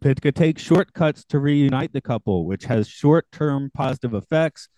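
prepared synopsis read aloud; plot summary read. A narrator's reading. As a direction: read out the film's storyline in measured phrases. I'll do a quick summary of that guy.

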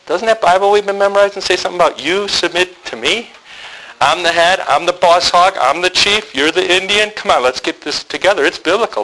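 hammed-up lording it over her; mock bossy. Husband quoting scripture at his wife to get his way, mock bossy.

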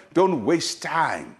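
"don't waste time" very slow, each word leaned on; slow, weighty repeat. Shown as a demonstration.

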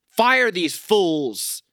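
slow, punched angry command; angry demand. Real, not acted. Fed-up fan slowly demanding the coaches get fired. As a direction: spell out each word like a verdict. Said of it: "I'm getting so angry".

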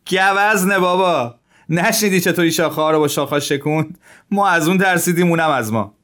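high, amused voice shrugging off the scare; laughing it off. A narrator's reading. Zhilin laughing at his frightened friend, high and amused. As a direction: laugh at your friend's fright, brushing it away. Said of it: "ژیلین به او خندید و گفت".

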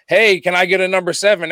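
big voice. Shown as a demonstration. Big guy ordering food in his big voice. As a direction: let the big voice fill the room. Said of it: "if my big voice just goes around".

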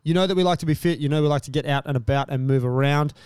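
even, measured podcast ad read; sponsor ad read. Real, not acted. Podcast host telling listeners about Dubby, measured ad read. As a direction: read the sponsor copy smoothly and evenly.

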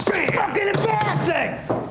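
sudden shout. Shown as a demonstration. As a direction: burst in and blast the team. Coach bursts in yelling.

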